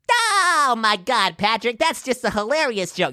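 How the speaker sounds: high, slow cartoon sponge voice; SpongeBob voice. Shown as a demonstration. SpongeBob reacting to Patrick's joke, high and slow. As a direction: talk like SpongeBob laughing at Patrick. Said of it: "do the laugh to initiate the voice".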